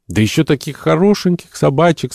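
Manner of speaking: put-on high-pitched child's exclamation; little boy. A narrator's reading. Little Jack hugs Dingo's head, piping up childishly. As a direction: pipe up like a small boy. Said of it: "сказал маленький Джек".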